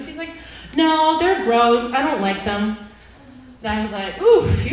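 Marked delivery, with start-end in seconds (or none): 0.7-2.8 put-on slow, louder flat no from a little boy; blunt kid refusal. Son refusing candy. 4.2-4.7 loud high oof of realization; comic oof. Retold or imitated. Reacting to son's answer.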